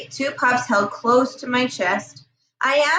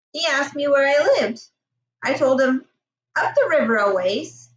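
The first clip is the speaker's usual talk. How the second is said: story narration. A narrator's reading. Reads novel chapter aloud.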